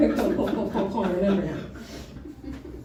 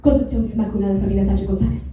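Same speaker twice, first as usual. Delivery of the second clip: fast, louder rush of names; rattled off fast; 2 semitones lower, 4 dB louder, much faster than usual. Shown as a demonstration. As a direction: blurt the full name out quickly. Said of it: "Let me say that again for you slowly".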